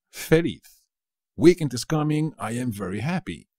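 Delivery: high, loud happy cheer; mock joy. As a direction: cheer about the weekend. Acting happy about weekend. (alegría fingida por el finde)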